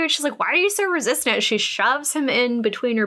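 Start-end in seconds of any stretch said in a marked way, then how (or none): 0.4-1.4 pushy woman. Retold or imitated. She pushes him.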